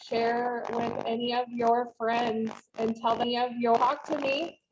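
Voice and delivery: buzzy bumblebee mic sound. Real, not acted. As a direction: talk through a buzzing bad mic. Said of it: "You sound like a bumblebee".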